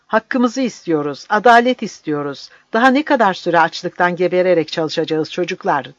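high, loud retold factory cry; rally the workers, recalling it; retold shout. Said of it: "diye bağırdım". (fabrikada işçilere bağırışını anlatır, yüksek sesle)

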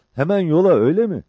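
high, loud, eager question; excited high-voiced comrade; Cabbar. A narrator's reading. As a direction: pitch it right up, checking the plan.

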